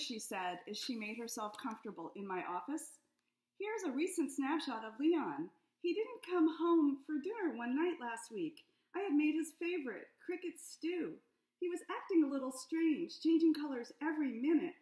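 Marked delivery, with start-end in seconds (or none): 3.6-14.7 higher, louder fretful wife; anxious client pouring out her story; a hint of a worried lizard wife. Worried Liz describes missing husband.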